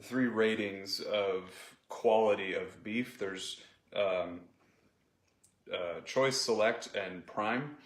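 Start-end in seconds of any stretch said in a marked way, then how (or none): 5.7-7.8 talking while chewing; words around a bite of steak; mouth full. Real, not acted. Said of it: "As I talk with my mouth full".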